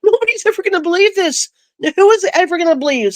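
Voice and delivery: high, fast, half-laughing disbelief; a nervous chuckle at how unreal it is. Retold or imitated. Laughing to herself that nobody will believe her, high and fast. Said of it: "I start kinda laughing to myself".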